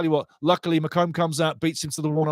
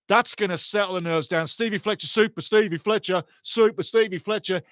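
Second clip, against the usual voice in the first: ordinary talk, nothing marked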